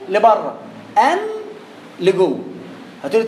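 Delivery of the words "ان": a quick ان with the tongue drawn in; short an. Shown as a demonstration. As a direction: say ان with the tongue pulled back inside. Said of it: "بعدين قول ان". (ان قصيرة واللسان لجوه)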